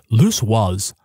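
put-on low, slow New Hampshire old-timer; lightly voiced old New Hampshire storyteller; New Hampshire accent. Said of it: "Your Fritz Weatherby accent".

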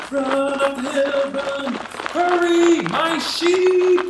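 high, loud, frantic urging; acted panic at full voice; urgent shouting. A narrator's reading. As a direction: yell them on up the hill, building. Boy urging villagers up the hill.

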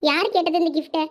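normal talking voice

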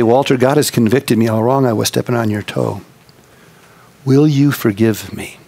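humble request. Retold or imitated. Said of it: "taking a humble position".

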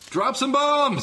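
high, loud shout at the ship; yelled order. Acted. Sam shouting at his ship to drop bombs. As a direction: bark the order over the chaos.

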